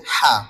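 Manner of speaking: হা from mid-throat, strongly aspirated; isolated throaty হা; demonstrating articulation. Shown as a demonstration. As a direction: push হা out from the middle of the throat. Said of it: "হলকের মধ্যখান থেকে".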